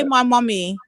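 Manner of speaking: my mummy in Patois, MY stressed; Jamaican Patois demo. Shown as a demonstration. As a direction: show how it's said in Patois.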